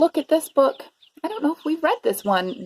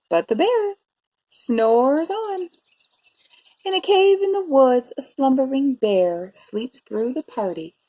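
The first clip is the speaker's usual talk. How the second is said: story narration. A narrator's reading. Teacher reading a bear story to preschoolers, expressive narration. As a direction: savour the rhymes for young listeners. Reads picture book to children.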